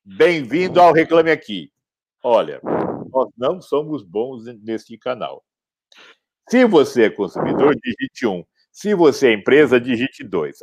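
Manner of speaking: phone menu voice. Pretend. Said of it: "a ura vai ser assim".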